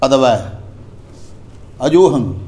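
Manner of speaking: ਅਦਵੈ, ਅਜੋਹੰ each word said apart with a falling end; careful pronunciation. Shown as a demonstration. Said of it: "ਇਸ ਪ੍ਰਕਾਰ ਜਿਵੇਂ ਉਚਾਰਨ ਹੋਇਆ". (ਅਦਵੈ ਅਜੋਹੰ ਦਾ ਸਾਫ਼ ਉਚਾਰਨ)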